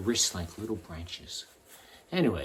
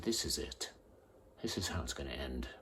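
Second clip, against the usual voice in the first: low, hushed retold threat, softer than the telling; quiet threat; 7 semitones lower, 9 dB quieter than usual. Ex-cop retelling his words to the man at gunpoint, quiet threat. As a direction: deliver the threat softly, sinking lower.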